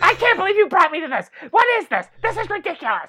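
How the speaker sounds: very high, shrill, loud, furious ranting yell. Pointing out the lady in pink yelling at her boyfriend, imitating her angry yell. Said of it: "She's literally yelling at her boyfriend".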